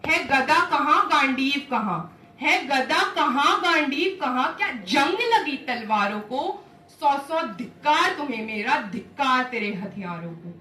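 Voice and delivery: emphatic, taunting reproach; scornful Draupadi. Acted. Draupadi mocks warriors who will not fight, scornful. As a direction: taunt them with swinging, forceful rhythm.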